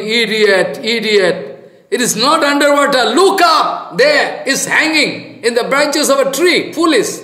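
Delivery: high, loud scolding scorn; mocking sadhu. Sadhu mocks villagers searching the water, loud and high. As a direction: scold the fools with amusement. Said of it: "Sadhu laughing".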